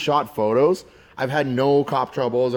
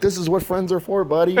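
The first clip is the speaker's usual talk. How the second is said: higher-pitched imitation of sentimentality; mock sentimental; 5 semitones higher than usual. Friends to driver after escape, mock sentimental. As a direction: gush at a buddy, half laughing. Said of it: "getting so sentimental on me".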